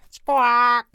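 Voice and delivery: sharp loud bird squawk; penguin squawk. Acted. Penguins warning tourists, loud squawk.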